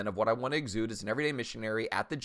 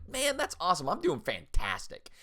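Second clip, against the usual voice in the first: overly upbeat; 8 semitones higher than usual. Retold or imitated. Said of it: "And I'm like".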